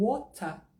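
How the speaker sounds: British WATER with a crisp T and no R; slow British WATER ending in A; British accent. Shown as a demonstration. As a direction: sound the T the British way. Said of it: "uma pronúncia mais britânica".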